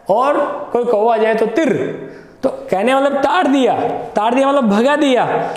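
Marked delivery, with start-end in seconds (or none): 1.5-2.0 तिर with a rolled r to shoo a crow; तिर as a short trilled shooing noise; shooing call. Shown as a demonstration. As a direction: chase the crow away with तिर. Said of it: "हम उसको भगाते हैं".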